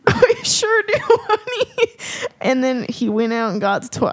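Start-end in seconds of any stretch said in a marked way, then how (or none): 0.1-2.3 put-on very high answering Mama voice, accented; hammed-up high accent for a doting Mama; put-on character accent. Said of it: "I'm speaking in his accent".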